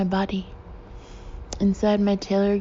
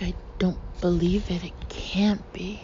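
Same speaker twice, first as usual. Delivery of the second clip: stunned whisper. Acted. Shocked recognition, whispered.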